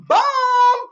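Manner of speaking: loud, high drawn-out cheer; celebratory boom. Retold or imitated. Reading out an excited congratulation.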